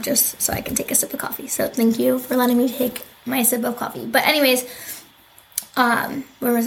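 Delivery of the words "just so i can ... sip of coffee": whispering. Real, not acted. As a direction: drop to a breathy whisper. Whispered aside during coffee sip.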